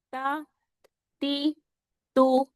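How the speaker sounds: تا، تی، تو with smooth vowels, no jerk; without a jerk. Shown as a demonstration. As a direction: say تا، تی، تو evenly, without jolting the ending. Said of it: "جھٹکے سے نہیں".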